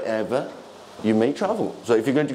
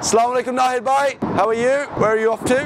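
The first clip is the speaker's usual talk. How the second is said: excited greeting; 9 semitones higher, 4 dB louder, faster than usual. Real, not acted. Greeting a friend warmly on camera.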